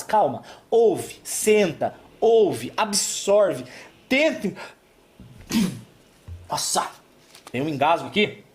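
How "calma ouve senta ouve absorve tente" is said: unhurried step by step; slow them down word by word; slow and calm. Shown as a demonstration. Urging anxious people to calm, slowly. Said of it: "pessoas estão muito aceleradas".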